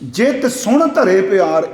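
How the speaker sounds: slow recitation leaning on ਸੁਣ; ਜਿਤ ਸੁਣ ਧਰੇ ਪਿਆਰ, ਸੁਣ drawn out and weighted, said slowly; stress on ਸੁਣ. Shown as a demonstration. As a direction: make them hear the word ਸੁਣ, slowly. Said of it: "ਇੱਥੇ ਲਫ਼ਜ਼ ਨੂੰ ਧਿਆਨ ਨਾਲ ਸੁਣਿਓ".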